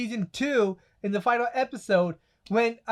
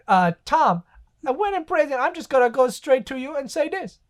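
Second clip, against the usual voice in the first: lightly voiced impression, higher pitch; slightly raised, deliberate character voice; Booty Warrior; 4 semitones higher than usual. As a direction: imitate him, drawing out the key words. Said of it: "he goes to the Booty Warrior".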